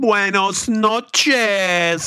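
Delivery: slow, high hammed-up Mexican accent; mock Mexican accent. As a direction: stretch it out in a joking Mexican accent. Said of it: "talk in a Mexican accent".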